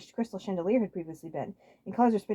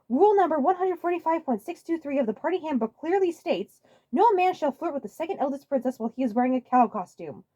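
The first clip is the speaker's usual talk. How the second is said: a hint of a fussy old steward; 8 semitones higher, 6 dB louder than usual. Toadsworth reciting the rulebook.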